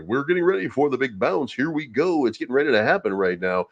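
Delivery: lightly hyped radio DJ hype; mock radio host pumping the crowd; a hint of a hammed-up DJ. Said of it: "he says it in the radio D J voice".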